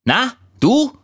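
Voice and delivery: tiny, very high greeting; fine little voice. A narrator's reading. Squirrel greets the sad leaf, fine high voice. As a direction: greet in a delicate high squeak. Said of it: "sagte eine feine Stimme".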